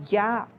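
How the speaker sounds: "ya" sounded out alone with a y glide; sound demo. Shown as a demonstration. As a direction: say "ya" as an isolated consonant sound. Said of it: "the phonetic transcription is".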